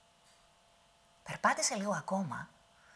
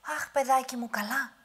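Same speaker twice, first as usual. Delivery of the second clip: put-on high old woman's voice; calm him down sweetly; soothing granny; 8 semitones higher, 4 dB louder than usual. Witch soothes the giant back to sleep, high.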